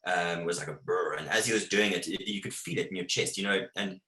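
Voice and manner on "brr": short rolled imitation of a growl; imitated lion growl. Safari guide imitating the charging lion's growl, mimicked growl. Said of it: "the, the growl rather".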